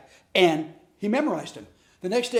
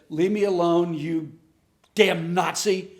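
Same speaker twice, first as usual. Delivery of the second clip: retold angry outburst; 4 dB louder, slower than usual. Retold outburst at childhood bullies.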